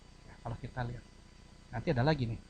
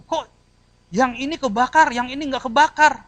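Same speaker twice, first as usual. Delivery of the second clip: puzzled; 9 semitones higher, 7 dB louder than usual. Acted. Acts puzzled bystander.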